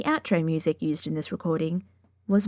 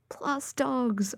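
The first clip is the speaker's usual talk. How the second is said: "plus dogs" higher and softer, savoured; delighted repeat; 5 semitones higher, 5 dB quieter than usual. Real, not acted. Dog lover repeating her favourite reason to listeners, delighted. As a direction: repeat "plus dogs" as a fond, dreamy sigh.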